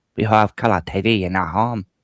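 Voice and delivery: put-on, imitated Chinese accent. Repeating a joke line from a video: imitating a Chinese accent. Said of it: "because of the Chinese accent".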